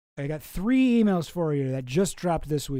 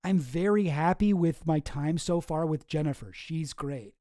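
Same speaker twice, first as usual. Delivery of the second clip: mock customer review. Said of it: "calling his Toyota dealership".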